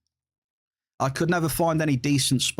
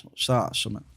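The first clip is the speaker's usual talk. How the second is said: hiccuping between words; with hiccups. Real, not acted. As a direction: talk through the hiccups. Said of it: "Sorry, I got the hiccups".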